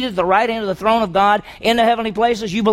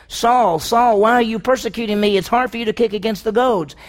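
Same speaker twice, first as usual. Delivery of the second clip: heavenly voice; 4 semitones higher, 4 dB louder than usual. Acted. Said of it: "I heard this voice saying".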